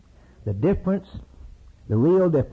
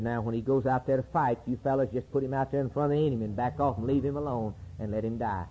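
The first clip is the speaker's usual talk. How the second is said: confidential order; 7 dB quieter than usual. Acted. David gives general secret murderous order.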